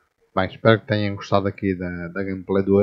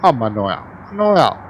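high, loud teasing scold; mock scolding; 4 semitones higher, 6 dB louder, slower than usual. Real, not acted. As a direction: scold yourself playfully. Teasing himself for clumsy parking.

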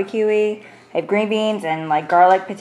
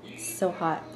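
talking through hot food; mouth full; 2 semitones lower, 13 dB quieter than usual. Real, not acted. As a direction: say it around a hot bite. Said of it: "I'm gonna take a bite".

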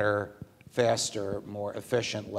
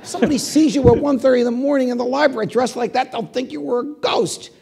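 much higher and louder, fast; laughing tease; 14 semitones higher, 12 dB louder than usual. Retold or imitated. Judge teasing Scalia about the ghost, laughing and fast. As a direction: tease him through laughter.

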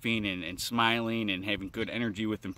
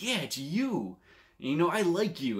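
smiling warmly; 5 semitones higher than usual. Retold or imitated. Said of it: "I just smiled and I'm like".

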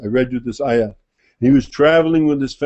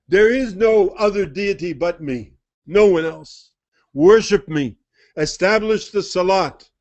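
solemn divine voice. Acted. Divine voice continues.

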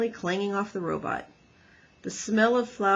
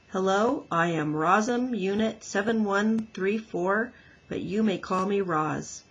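automatic robot voice. Acted. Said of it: "spoke those words automatically".

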